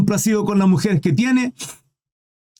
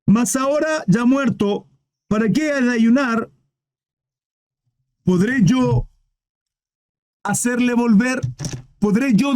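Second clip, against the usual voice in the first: grieving David, slow; 3 semitones higher, slower than usual. Acted. Reads David's words slowly.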